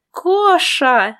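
exclaimed. A narrator's reading. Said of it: "воскликнула я и засмеялась".

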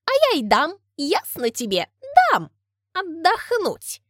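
loud, spiteful retort building up; escalating comedy rant. Acted. Women quarrel escalates.

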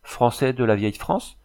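mildly surprised. Acted. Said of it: "d'un ton surpris".

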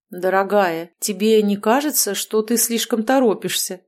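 husband reasoning. Acted. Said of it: "попытался вразумить жену Белиал".

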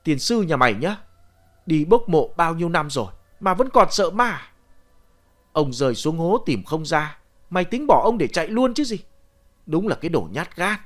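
mildly angry grandfather telling off; exasperated cursing, not shouted; scolding. Acted. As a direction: berate the boy, pitch lifting. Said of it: "ông đá mạnh một cái vào mông tôi rồi chửi".

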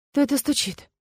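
high, understated grumbling question; displeased. A narrator's reading. Woman disturbed by knocking, displeased. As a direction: ask it mildly put out. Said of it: "недовольно спросила я".

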